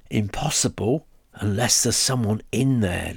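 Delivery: spooky teasing voice; ghoulish whisper. Acted. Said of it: "Lucy whispered in a ghoulish voice".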